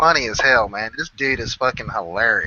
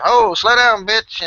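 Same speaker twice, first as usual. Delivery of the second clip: higher, louder teasing call; mock yell; 8 semitones higher, 5 dB louder, slower than usual. Teasing a riding buddy over Bluetooth, loud and higher. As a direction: shout it as a joke over the helmet mic.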